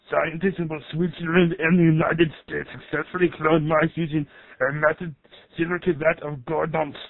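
computer narrator in an Austrian strongman voice; Arnold Schwarzenegger. Acted. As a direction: narrate science facts like an action hero. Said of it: "you guys got the rights to Arnold Schwarzenegger's voice?".

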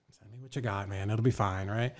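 calm down a fired-up client; retold reassurance. Attorney calming fired-up client, retold.

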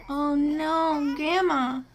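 a hint of a little girl crying at a grave; voicing a crying little girl. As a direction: squeak it out like a tearful kid. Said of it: "she starts crying".

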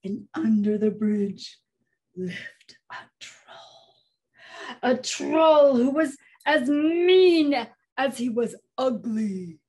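slow, dramatic troll introduction; slow and ominous, building from hushed to strong; ominous storytelling. A narrator's reading. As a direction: draw it out with menace, hitting MEAN.

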